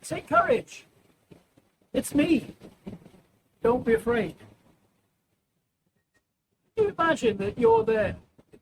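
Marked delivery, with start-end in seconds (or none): 0.0-4.4 calm, assured call across the water; Jesus speaking. Acted. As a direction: reassure frightened men, lightly voiced. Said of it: "Jesus said".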